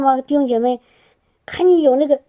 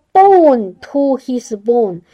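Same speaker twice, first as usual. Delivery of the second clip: slow emphatic English; much slower than usual. Shown as a demonstration. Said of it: "英文它形容得很形象".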